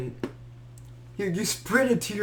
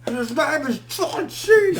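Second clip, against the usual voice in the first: slow, high, booming intro; a friend teasing, hyping the entrance like an announcer; ring announcer; 7 semitones higher, 4 dB louder than usual. Pretend. Joking wrestling announcer intro.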